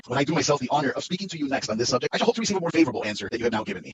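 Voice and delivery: lightly pompous, undeterred suitor; a hint of a smug clergyman; playing the fool Collins. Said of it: "I'll play the fool here".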